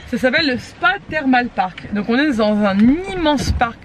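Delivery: slight lisp from dental aligners; lisping through aligner trays. Real, not acted. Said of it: "Je zozote avec mes gouttières".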